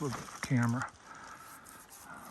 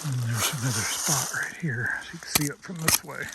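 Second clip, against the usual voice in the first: out of breath. Real, not acted. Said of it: "Sorry, I'm out of breath".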